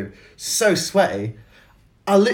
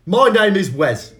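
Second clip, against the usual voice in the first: badly faked Cockney accent, drawn out; bad Michael Caine; 3 semitones lower, slower than usual. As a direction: have a poor go at a Cockney film-star accent. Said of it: "this is a really bad accent".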